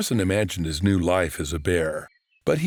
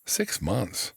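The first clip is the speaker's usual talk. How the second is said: deflated; 4 dB quieter than usual. Acted. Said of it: "Orson slumped".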